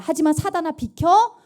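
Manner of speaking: firm, loud rebuke of Satan; defiant shout. Acted. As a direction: rebuke the devil with force.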